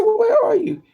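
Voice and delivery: high, loud exasperated demand; retold exasperation. Woman hunting for her drunk friend, exasperated and loud. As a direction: raise pitch and volume, demanding his whereabouts.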